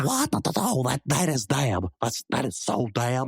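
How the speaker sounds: loud, high, emphatic slang outburst; excited objection. Acted. Slang talker reacts to the rival's boast, loud and worked up. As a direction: jump in loudly, pitch up.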